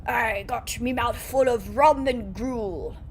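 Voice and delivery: slow pirate drawl, mouth full; pirate with a mouthful of food; pirate accent. Pretend. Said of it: "in that accent".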